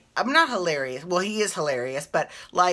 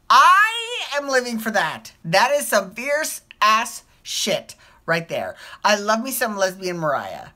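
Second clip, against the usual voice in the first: gushing; 4 semitones higher, 5 dB louder than usual. Real, not acted. Fan gushing loudly about a lesbian version of a singer. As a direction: savor every word with delight.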